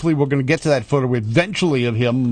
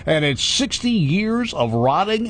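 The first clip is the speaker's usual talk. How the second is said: booming Sunday Sunday Sunday announcer; big monster truck promo call; hyped race ad voice; 7 semitones higher, slower than usual. Pretend. Drag race radio ad parody.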